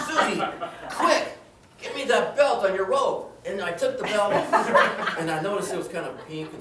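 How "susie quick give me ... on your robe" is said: loud, high, urgent command; urgent call. Acted. Husband urgently yelling to his wife for the robe belt. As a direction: yell at her to hand it over fast.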